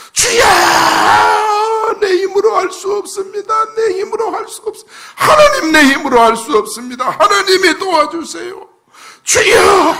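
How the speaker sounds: very high, strained pleading; high-pitched, hurried desperate prayer; desperate crying out. Acted. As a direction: act out a beggar crying for help. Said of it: "소리 지르는 것은 바로 그런 수준으로".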